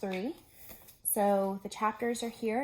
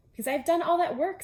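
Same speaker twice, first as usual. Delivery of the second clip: Toad proud; 8 semitones higher, 7 dB louder than usual. Acted.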